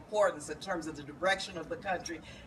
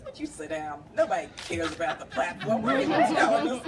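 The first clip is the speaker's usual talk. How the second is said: mocking colleagues; 4 dB louder than usual. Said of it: "All of my colleagues said".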